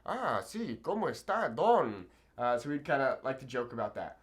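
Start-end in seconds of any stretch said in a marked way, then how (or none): 0.0-2.1 mock formal gentleman. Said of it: "very kinda old-fashioned".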